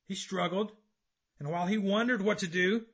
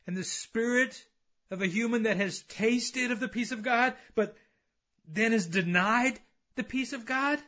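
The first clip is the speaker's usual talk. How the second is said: raised, emphatic sermon voice; impassioned preaching; 7 semitones higher, 6 dB louder than usual. Acted. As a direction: preach it out to the congregation. Preaches with force.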